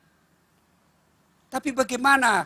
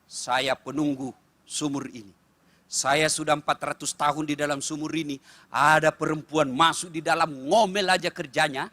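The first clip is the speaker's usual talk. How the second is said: jinn from the well; 6 semitones lower than usual. Retold or imitated. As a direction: rumble it out like an old spirit of the well. Giant jinn from the well speaks. (suara jin penunggu sumur yang rendah dan lambat)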